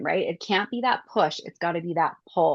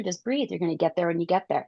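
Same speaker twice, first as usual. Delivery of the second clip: calming down; faster than usual. Retold or imitated. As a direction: breathe and settle yourself.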